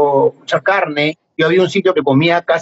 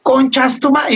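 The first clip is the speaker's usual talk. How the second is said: slow, higher mock insult with foreign accent; imitating the guy's insult; 8 semitones higher, slower than usual. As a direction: drawl the insult like a foreigner learning Spanish. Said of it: "me mentaba así cada rato".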